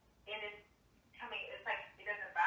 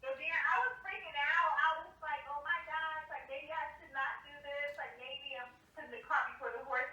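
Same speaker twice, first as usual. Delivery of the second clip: excited panic; 6 semitones higher than usual. Retold or imitated. Retelling her own panic.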